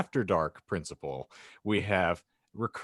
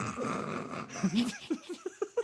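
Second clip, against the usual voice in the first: high, soft, breaking-up laugh; stifled laugh; 6 dB quieter than usual. Real, not acted. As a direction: crack up after a character line. Breaks up after Hagrid line.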